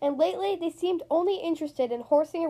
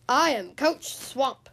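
stern coach; slower than usual. Acted. Stern coach introduces herself.

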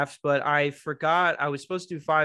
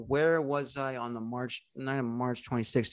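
stalling suspect; 5 dB quieter than usual. Retold or imitated. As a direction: drag it out to buy time. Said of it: "And they go".

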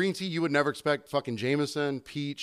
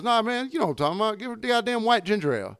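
higher, fast, pushy imitation of the customer; impatient country guy; 8 semitones higher, 3 dB louder, faster than usual. Customer insisting to the bartender, higher and pushy. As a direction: rush it like a guy showing off to his date. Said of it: "He goes".

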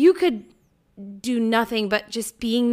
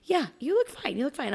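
higher, lukewarm mom voice; a mother forcing a half-hearted yes; unconvinced mom; 7 semitones higher, 4 dB quieter than usual. Retold or imitated. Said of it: "my mom just sitting there going".

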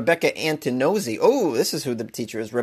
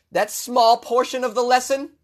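incredulous; 10 semitones higher than usual. Retold or imitated. Mocking the statement.

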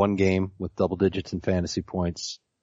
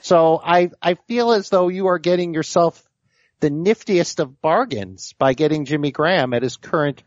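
higher, prim know-it-all nerd voice; 5 semitones higher than usual. Pretend. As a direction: play it like a fussy stats nerd. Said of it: "Can you do it in the nerd voice?".

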